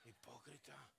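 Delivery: "hipócrita" with a quiet scornful laugh, falling tune; scoffing laugh. Pretend. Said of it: "lo mira a usted y dice".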